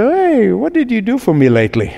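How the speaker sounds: mock-casual entitled challenge; ungrateful demand. Mimics ungrateful people afterwards.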